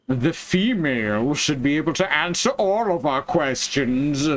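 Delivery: lightly voiced old-timey chauvinist; hint of a pompous old-fashioned villain; old-timey misogynist voice. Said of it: "I'm going into my old-timey misogynist voice".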